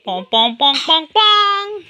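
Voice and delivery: bouncy pong sounds rising each time; playful pong noises. Pretend. Mother amusing her baby with playful pong sounds. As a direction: make a silly bouncing noise.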